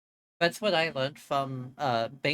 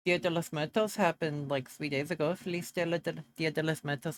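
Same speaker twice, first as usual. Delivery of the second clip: Spanish accent; 4 semitones higher than usual. Real, not acted. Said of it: "I really do put on an accent".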